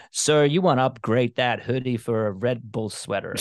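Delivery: voicing the TSA agent in a rough Atlanta accent; attempted Atlanta accent. TSA agent offering a Red Bull sweater, in a failed Atlanta accent. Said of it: "that's not his accent. I can't do an Atlanta accent".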